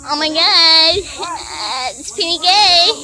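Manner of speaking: mock dismay broken by laughter; laughing quote. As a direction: laugh through the quoted line. Retold reaction, laughing.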